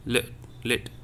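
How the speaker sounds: "let, let" with a quick, clipped e; very short sound. Shown as a demonstration. Teacher demonstrates "let, let" for students, vowel very short. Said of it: "the sound is very short".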